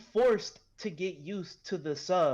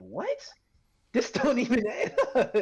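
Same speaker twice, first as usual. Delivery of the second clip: high, loud laughing protest; laughing disbelief; 9 semitones higher, 4 dB louder than usual. Retold or imitated. Reacting to a mismatched deep voice.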